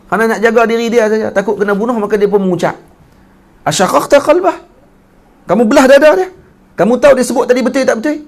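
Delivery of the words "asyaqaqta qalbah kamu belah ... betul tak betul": much higher, louder indignant demand; angry rebuke. Retold or imitated. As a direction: press him hard as the angry Prophet. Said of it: "Nabi marah betul waktu tu".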